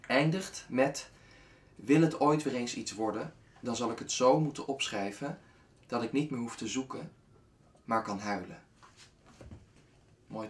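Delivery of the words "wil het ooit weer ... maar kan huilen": measured reading, pausing after each line; unhurried poetry reading; poem recitation. Acted.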